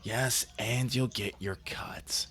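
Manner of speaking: whispered. Acted. Austin answers, whispered.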